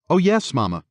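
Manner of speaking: put-on high-pitched child's protest; protesting little girl. A narrator's reading. Daughter insists to her mother about imaginary friend, protesting. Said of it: "Missy protested".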